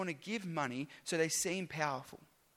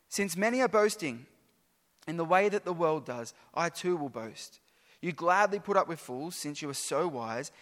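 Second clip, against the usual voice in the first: sarcastic. Acted. Preacher voicing Paul's scorn at the boastful church, sarcastic. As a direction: let the scorn drip through Paul's words. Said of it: "Can you hear the sarcasm in Paul's voice?".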